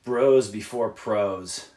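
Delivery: slow and deliberate, each word set apart; slow catchphrase. Shown as a demonstration. Musician spelling out his slogan to young bands, slow. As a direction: lay out the rhyme slowly like a motto. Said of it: "my corny little rhyme here".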